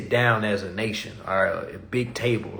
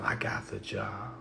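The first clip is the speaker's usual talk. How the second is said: mocking; 2 semitones lower, 12 dB quieter than usual. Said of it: "Talking about some".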